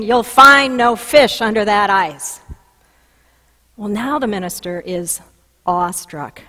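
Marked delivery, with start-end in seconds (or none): 0.0-2.4 a booming call from nowhere, louder. Retold or imitated. Heard by the minister drilling on the ice, a loud booming voice. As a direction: boom it out like a voice from above. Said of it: "hears again the loud booming voice saying".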